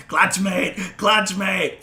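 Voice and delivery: high, loud, gleeful creature cries; excited lizard creature. Acted. Game master as lizard tackling a lost friend, excited cries. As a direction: call it out twice, loud and high. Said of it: "is sissing and laughing and".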